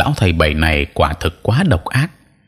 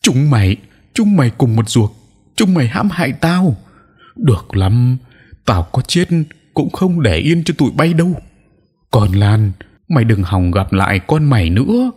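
frenzied howl; 6 semitones higher than usual. A narrator's reading. Cornered old sorcerer cursing all his enemies, frenzied. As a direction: scream curses like a madman. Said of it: "Lão rú lên điên dại".

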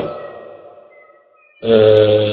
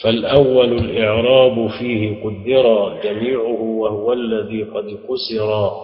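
verse recitation; slower than usual. Acted. Reads the grammar verse aloud.

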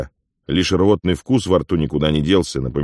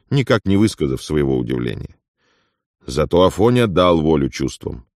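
ordinary delivery

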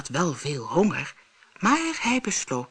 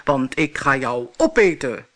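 monster roar; 3 semitones lower, 3 dB louder than usual. Acted. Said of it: "brulde het monster".

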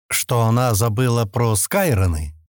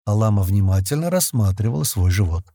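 ordinary delivery

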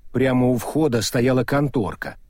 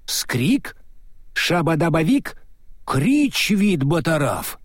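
tiny whispery squeak down a tube; distant thin voice from a speaking tube; faint squeak through a tube; 4 semitones higher, slower than usual. Acted. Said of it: "как писк паучка". (слабый писк через трубу)

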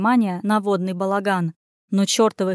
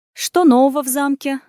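eager questions; 5 semitones higher, 5 dB louder than usual. A narrator's reading. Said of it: "накинулась она с вопросами".

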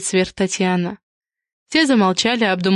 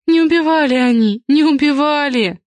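moaning; 6 semitones higher, 3 dB louder than usual. A narrator's reading. Mother insists her sons are innocent, moaning. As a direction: moan it out, pitched well up. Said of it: "простонала Антонина Дмитриевна".

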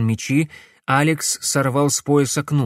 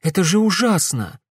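higher, stressing же in Это же ужасно; horrified exclaim; 6 semitones higher than usual. A narrator's reading. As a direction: cry out Это же ужасно with shock on же. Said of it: "воскликнула Глория".

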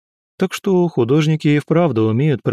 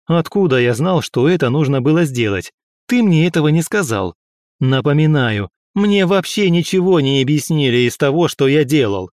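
higher, heated defensive protest; angry retort; 3 semitones higher than usual. Acted. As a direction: snap back in irritation. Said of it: "Я тоже разозлился".

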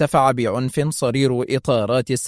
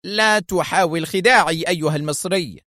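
angry; 6 semitones higher than usual. Acted. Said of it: "وهو يقول في غضب".

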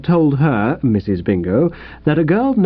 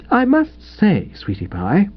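restrained reproach; 7 semitones higher than usual. A narrator's reading. Wife gently scolding husband.

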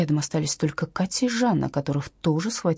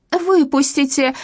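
high, slow, loud yell; 9 semitones higher, 5 dB louder, slower than usual. A narrator's reading. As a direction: bang and shout to be let out. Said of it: "вопила Катя".

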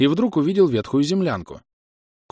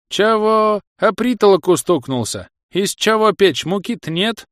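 put-on high, loud old wife outrage; shrill indignant old woman; 8 semitones higher, 3 dB louder than usual. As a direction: squawk at him in disbelief. Old wife snaps back. (возмущённая старуха)

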